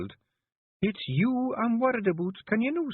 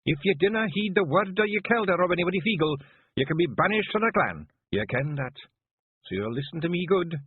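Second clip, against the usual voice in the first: higher, stern Scots order; commanding Kelder; 9 semitones higher, 3 dB louder than usual. A narrator's reading. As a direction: lay down the law to her chief. Jeanie giving a Kelder's order.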